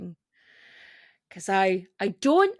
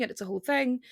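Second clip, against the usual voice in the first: usual speaking voice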